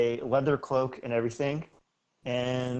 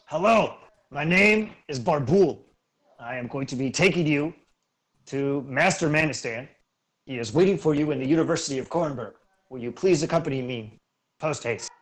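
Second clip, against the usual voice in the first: a hint of a stiff, proper servant greeting guests; polite and formal, a little louder; lightly voiced formal chauffeur; 5 dB louder than usual. GM as chauffeur greeting the travellers, stiffly formal.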